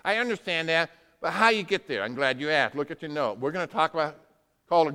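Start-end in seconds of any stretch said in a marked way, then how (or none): 0.0-2.0 imagined listener. Retold or imitated. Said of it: "you might be thinking".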